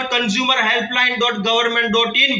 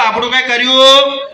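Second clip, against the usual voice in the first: sheepish confession; 6 dB louder than usual. Retold or imitated. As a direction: own up haltingly with the head hung. Head down, holding the mic.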